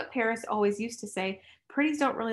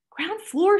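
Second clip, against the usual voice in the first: repeated order; 10 semitones higher, 6 dB louder than usual. Acted. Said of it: "she repeated".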